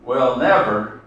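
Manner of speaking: slow, measured reading that swells on "my red heart"; solemn demonstration of the rhythm of a loyal poem; slow poem recitation. Shown as a demonstration. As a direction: recite it slowly, pausing at each phrase. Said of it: "See how the rhythm goes?".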